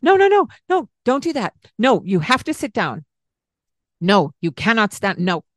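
high, loud panicked "no, no, no"; harsh scolding. Shown as a demonstration. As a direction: snap at the child in the bath. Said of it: "I'm showing you the tone of voice that we might use".

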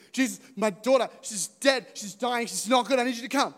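father begging Jesus to come heal his daughter; desperate father. Pretend. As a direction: beg for your daughter's life.

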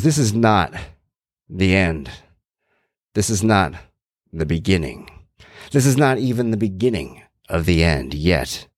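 lightly done menacing wrestler promo; scary Jake the Snake voice. Retold or imitated. Podcaster quoting the wrestler's line, lightly voiced scary promo. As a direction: lean in like a wrestler taunting the camera. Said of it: "scary Jake the Snake voice".

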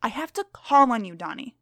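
lightly voiced stern schoolteacher; strict teacher. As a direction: read to the class as a stern teacher.

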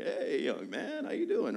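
put-on slow, friendly older pastor greeting, ending in a high lift; imitating the visiting pastor's slow, warm greeting. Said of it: "he comes in and he's like".

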